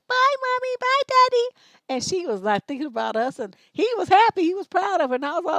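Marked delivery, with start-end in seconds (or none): 0.1-1.5 high, lightly voiced small girl waving bye; a cheerful child saying goodbye; little daughter.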